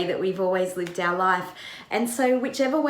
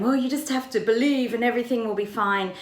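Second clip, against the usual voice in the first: glib platitude; faster than usual. Retold or imitated. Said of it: "He doesn't respond to them by going".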